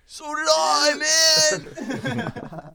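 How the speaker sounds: high, loud outraged yell; shouting. Pretend. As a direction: blurt it out betrayed. Mock outraged jealous guy.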